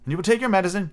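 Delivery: put-on high-pitched girl's question; lightly voiced little mother; motherly fussing. A narrator's reading. Wendy fusses over Peter's medicine.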